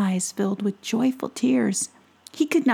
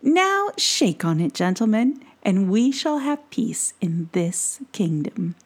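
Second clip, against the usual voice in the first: cold regal fairy queen. Acted. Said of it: "said the Fairy Queen".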